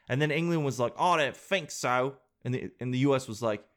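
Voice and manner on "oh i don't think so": lightly hammed British accent slipping toward Australian; mock British. England refusing the US, wobbly mock-British accent. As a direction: put on a loose British refusal. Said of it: "British accent and not go Australian".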